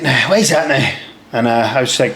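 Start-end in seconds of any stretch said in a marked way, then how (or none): 0.0-0.9 mock Scottish corporal questioning; bad Scottish accent. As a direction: put on a rough attempt at Scottish. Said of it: "most horrible Scottish accent here".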